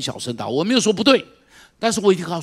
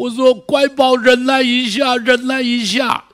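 tearful comforting; 9 semitones higher, 8 dB louder, slower than usual. Retold or imitated. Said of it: "我在边上一边流着泪".

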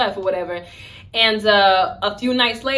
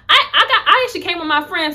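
laughing; 8 semitones higher, 5 dB louder than usual. Real, not acted. Laughing off guy's invitation.

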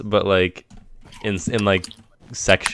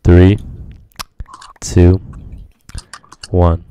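loud countdown; 3 semitones lower, 8 dB louder, much slower than usual. Real, not acted. Loud countdown before recording.

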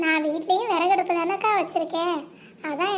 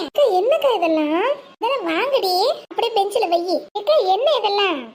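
louder, excited questions; surprised delight; 3 semitones higher, 5 dB louder than usual. Acted. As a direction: gasp at the pile of gifts. Surprised by the gifts. (ஆச்சரியத்துடன் மகிழ்ச்சி)

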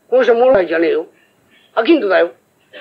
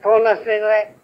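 トーナスでござい pushed out a bit louder on トー; louder vendor call; 2 semitones higher than usual. Shown as a demonstration. Vendor coaching himself to call louder, a bit bolder. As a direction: try トーナスでござい with more voice. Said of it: "もっと大きな声だ".

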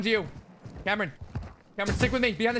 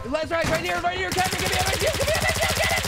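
building excitement; 10 semitones higher, faster than usual. Real, not acted. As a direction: hype up the push until it peaks. Coordinating attack, rising excitement.

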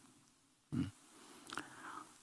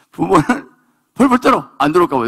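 anxious exclamation; 8 semitones higher, 6 dB louder than usual. Acted. Anxious parents described.

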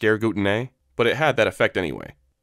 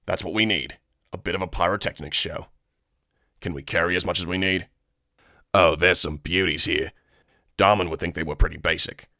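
clone soldier voice; 4 semitones lower than usual. Acted. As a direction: admire explosives like treasures. Clone Atten admiring explosives.

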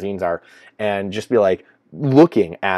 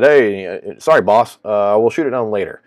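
mock subordinate reply; 6 dB louder than usual. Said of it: "And then they said".

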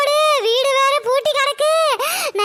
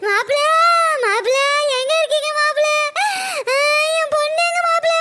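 tearful pleading; 3 semitones higher, faster than usual. Acted. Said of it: "ஏன் தழுவுறீங்க?".

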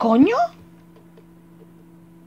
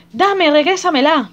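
loud, slow desperate plea, higher; frantic mother; 7 semitones higher, 4 dB louder, slower than usual. Acted. Mother begs for her daughter back, slow loud plea. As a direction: drag out each demand like a desperate mother.

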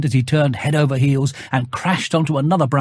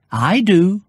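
higher cheerful bear voice; Pooh's greeting; 5 semitones higher, 3 dB louder than usual. Acted. Bear greets Christopher Robin at his door, higher and cheerful. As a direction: greet your friend brightly. Pooh insists.

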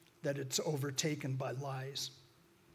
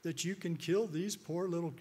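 mock tearful protest; 5 semitones higher than usual. Tearful park protester scolds the man killing prairie dogs, mock tearful. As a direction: imitate an upset woman pleading, without real tears. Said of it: "just crying tears and just going off".

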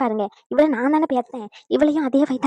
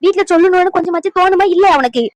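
scolding outburst; 5 semitones higher, 4 dB louder than usual. Acted. Grandmother scolds granddaughter for hiding it.

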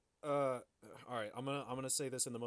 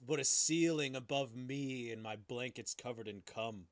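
hammed-up drama; 4 dB louder than usual.

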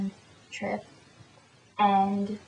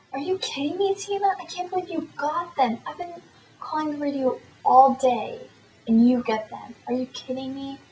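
imitating a thrilled friend, much higher pitch; excited disbelief; 5 semitones higher than usual. Friend calling about the concert tickets, high excited disbelief. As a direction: act out her high-pitched, incredulous outburst.

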